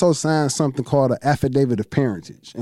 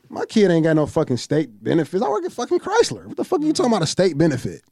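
cussing her out. Retold or imitated. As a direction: chew the clerk out, indignant. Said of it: "I'm cussing the lady out".

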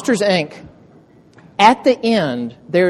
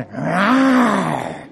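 playful little monster roar; a child's cute fake growl; dinosaur voice; 3 semitones higher than usual. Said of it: "she starts going".

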